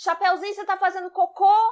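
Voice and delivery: acted-out, high, loud wolf hollering shout. Retelling Little Red Riding Hood, the speaker voices the wolf shouting. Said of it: "O lobo começa a gritar".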